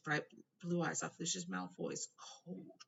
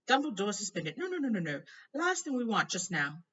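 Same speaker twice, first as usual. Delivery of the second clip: alarmed Fudge; 5 semitones higher, 7 dB louder than usual. A narrator's reading. Fudge protesting to Malfoy, loud and alarmed. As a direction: scramble to object. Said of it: "looking alarmed".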